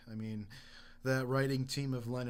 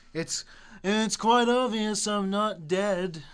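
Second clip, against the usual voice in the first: put-on Liverpool accent; 5 semitones higher, 6 dB louder, slower than usual. Voicing a singer.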